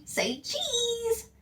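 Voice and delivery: put-on high cheerful girl's voice; high sing-song coaxing for the camera; Judy coaxing. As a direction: coax a smile out of him. Judy for photo.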